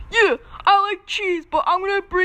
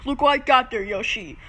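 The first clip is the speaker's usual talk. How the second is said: deep toy voice; 3 semitones lower than usual. Pretend. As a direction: play the big gruff toy, low. Toy shows its fishy bites.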